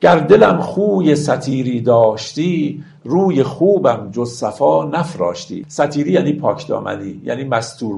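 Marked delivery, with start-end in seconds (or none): 0.0-5.7 slow, measured verse reading; stately classical verse delivery; poetry recitation. Acted. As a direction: recite the couplets with drawn-out, metered phrasing. Recites verse between explanations.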